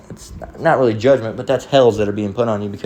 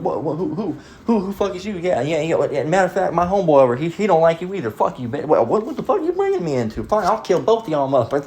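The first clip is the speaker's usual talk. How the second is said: high, rapid hammed-up tough guy; mock drunk brawler; 7 semitones higher than usual. Drunk bar guy mouthing off at someone, high hammed-up tough voice. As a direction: play a drunk picking a fight.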